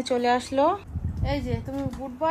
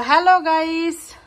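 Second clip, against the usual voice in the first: put-on slow demo for a toddler; 4 semitones higher, 8 dB louder, slower than usual. Shown as a demonstration. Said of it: "বলো".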